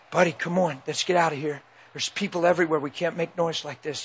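softened fatherly coaxing. Retold or imitated. Father urging his upset son out past people, hushed coaxing.

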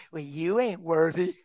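sly devil whisper. Acted. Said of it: "devil slides up on my shoulder and say".

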